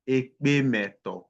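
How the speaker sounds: slow, deliberate syllables; slow teaching demo. Shown as a demonstration. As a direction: spell it out slowly for the class. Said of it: "which is Ekpe Meto".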